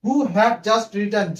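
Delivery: very slow, drawn out while writing; slow dictation. Shown as a demonstration. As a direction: spell it onto the board slowly. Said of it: "এই জায়গায় যদি আমি বসিয়ে দিই". (লিখতে লিখতে খুব ধীরে বলা)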